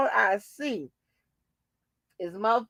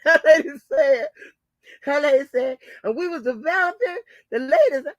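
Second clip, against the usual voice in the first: laughing; 3 semitones higher, 3 dB louder than usual. Real, not acted. Laughing while retelling.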